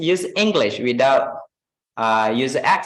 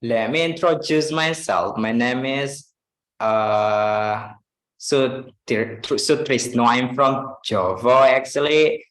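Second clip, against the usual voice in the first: light imitation of a Javanese accent; Sutrisno; 2 semitones lower, slower than usual. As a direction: introduce yourself in English with lightly Javanese intonation. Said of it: "make the intonation like Java, uh, accent".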